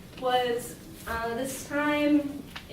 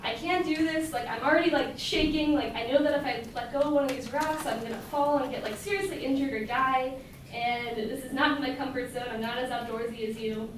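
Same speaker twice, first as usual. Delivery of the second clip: yelled plea. Retold or imitated. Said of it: "I yell down to him".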